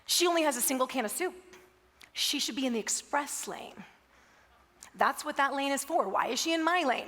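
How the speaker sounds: a rule follower fuming over the express lane; indignant rant. Retold or imitated. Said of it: "'cause he was like".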